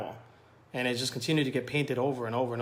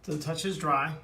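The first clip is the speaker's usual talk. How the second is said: talking while climbing a ladder; a bit strained from climbing. Real, not acted. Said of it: "Excuse me, I'm climbing on a ladder".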